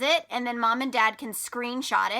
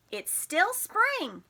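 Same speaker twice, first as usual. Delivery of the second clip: slow emphasis; 7 semitones higher, much slower than usual. Shown as a demonstration. Reading for emphasis.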